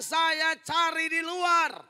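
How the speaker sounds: slow, loud, defiant husband's shout; drawn-out shouted retort of a straying husband. Retold or imitated. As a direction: throw it back like a fed-up husband. Unfaithful husband's retort quoted.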